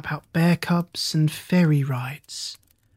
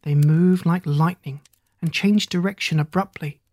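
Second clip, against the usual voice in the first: bedtime story narration. A narrator's reading. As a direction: read it gently, like to a child at bedtime.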